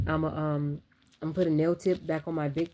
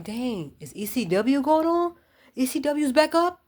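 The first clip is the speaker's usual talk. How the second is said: much higher and louder, slowed, mock amazed; excited wrestling joke; 9 semitones higher, 6 dB louder, slower than usual. Real, not acted. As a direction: shout it like the wrestling show is back.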